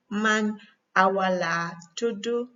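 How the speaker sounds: Senegalese-accented Wolof answer, "tudu" with final u. Shown as a demonstration. Teacher modelling the other person's reply, Senegalese accent. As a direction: end "tudu" on "oo", Senegalese style. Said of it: "tudu and tuda is just accent".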